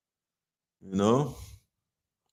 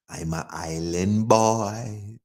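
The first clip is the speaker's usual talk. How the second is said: slow serious; much slower than usual. Acted. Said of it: "I'm taking this shit serious".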